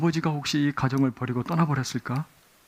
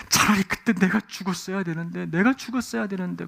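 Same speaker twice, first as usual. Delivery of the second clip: retold wailing; 4 semitones higher than usual. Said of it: "오열을 하면서 눈물을 흘리면서".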